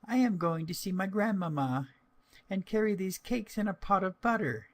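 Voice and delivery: put-on high, innocent little-girl voice; voiced as sweet young girl; little girl's voice. A narrator's reading. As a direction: chirp it like a trusting child.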